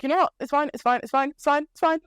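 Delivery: convince yourself it's fine, rising into panic; Duke's mock reassurance spiralling up into panic; mock panic building. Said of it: "But he's still convinced, like".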